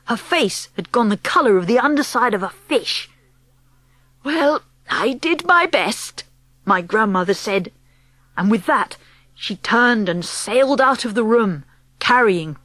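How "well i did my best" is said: slow, higher, mildly put out; resigned. Acted. Grandmother leaving the parents, slowly resigned. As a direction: draw it out as a parting remark.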